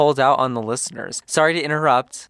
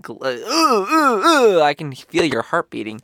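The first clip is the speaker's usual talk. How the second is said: hammed-up breathy ooh; playful fake moan rising high; mock moaning; 5 semitones higher than usual. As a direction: moan it like a joke. Moaning parody after "throbbing.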